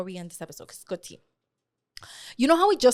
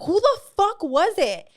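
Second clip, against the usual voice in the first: retold demand; 7 semitones higher, slower than usual. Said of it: "I was like".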